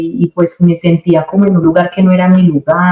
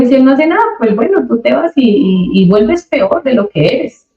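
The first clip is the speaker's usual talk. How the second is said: pastor's warning; 7 semitones higher than usual. Retold or imitated.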